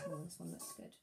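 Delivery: hushed, secretive whisper. Pretend. Teacher whispering while hunting in the dragon stew.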